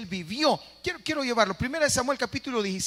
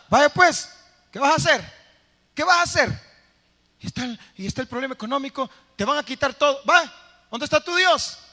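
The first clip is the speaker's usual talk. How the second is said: loud, high mocking taunt, voiced as the problem; a bully yelling threats, high and loud; taunting shout; 6 semitones higher, 6 dB louder than usual. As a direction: jeer at the cornered listener loudly.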